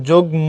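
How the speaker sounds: "যুগ্ম" as jug-mo; সঠিক উচ্চারণ. Shown as a demonstration. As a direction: sound the m in "যুগ্ম", drawing out mo. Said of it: "so উচ্চারণ". ("যুগ্ম"-তে ম স্পষ্ট, টেনে)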